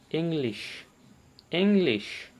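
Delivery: "इंग्लिश" opened on an ee sound; teacher's model "इंग्लिश", stressing the first ई; long ई demo. Shown as a demonstration. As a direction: say "इंग्लिश" with a clear initial ee. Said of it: "ई को बड़ी ई पढ़ते हैं".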